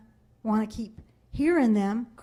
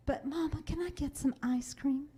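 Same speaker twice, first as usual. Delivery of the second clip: put-on higher, sweet wheedling little girl; imitating pleading child; 4 semitones higher, 7 dB quieter than usual. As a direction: coax Mama like a child after treats. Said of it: "And she goes".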